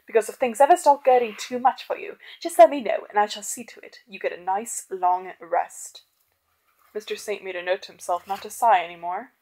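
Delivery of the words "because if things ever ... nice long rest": veiled threat. Acted. Doctor threatening his butler, building loud menace then settling. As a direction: threaten him sweetly then drop it.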